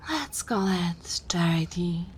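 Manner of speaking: vampire conceding with mild exasperation; long-suffering vampire. Acted. Vampire agreeing to lend rival the thrall, grudging and condescending. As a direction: grudgingly grant the favour, with lordly condescension.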